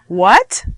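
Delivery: WHAT as a rising question; voice goes up. Shown as a demonstration. Teacher showing question intonation, WHAT going up. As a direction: swoop WHAT upward. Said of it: "my voice goes up".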